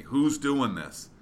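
a mock coach's yell up the stairs; yelling back. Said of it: "he yells back at me".

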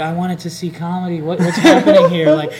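freaking out. Retold or imitated. College kid caught in a show gone bad, mock freak-out. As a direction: stammer in mock panic, building. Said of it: "kid is freaking out right now".

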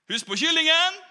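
put-on old man taunting the young cook; pointed reminder. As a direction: call it after him as a threat.

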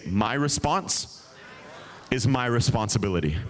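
"My response" drawn out slowly for the congregation to repeat; slow call and response. Shown as a demonstration. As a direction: lead the room, word by word.

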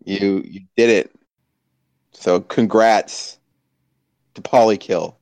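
slow, grudging congrats; begrudging. Pretend. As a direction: force the congrats out slowly. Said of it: "I begrudgingly".

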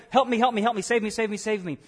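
flailing swimmer begging to be saved; hammed-up drowning man crying for help; mock panicky cries. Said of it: "And they're like".

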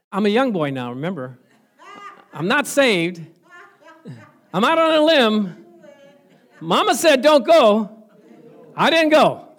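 rising to a loud, high preaching climax. Real, not acted.

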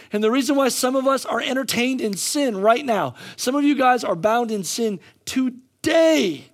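driving, emphatic sermon delivery; impassioned preaching. Real, not acted. Preacher telling the church the world seeks purpose, impassioned. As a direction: preach it with rising urgency.

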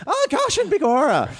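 a botched Scottish brogue that sounds Irish; failed Scottish accent. Pretend. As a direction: try a Scottish brogue and crack up. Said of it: "Doesn't that sound a little Irish?".

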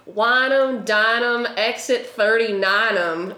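mimicked accent, punchy start, slowing at the end; Brock's accent. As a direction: call out a billboard slogan in an imitated thick accent. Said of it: "his accent just came out, like, very solidly".

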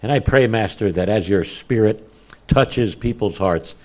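reverent prayer voice; closing prayer. Acted. Pastor closing the sermon in prayer, reverent. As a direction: pray earnestly to the Father.

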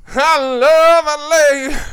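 loud, high, drawn-out mock cheer; hammed-up declaration. Co-host teases about loving L A, hammed-up loud declaration. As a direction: belt it out slowly, playing to the room.

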